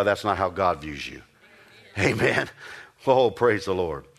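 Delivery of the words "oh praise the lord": ordinary talk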